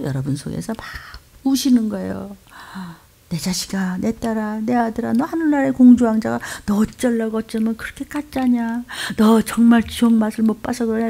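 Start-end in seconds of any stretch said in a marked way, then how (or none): 3.3-11.1 grieving plea. Retold or imitated. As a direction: plead like a grieving parent. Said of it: "이러고 막 우시는 거예요". (탄식하며 애원하듯)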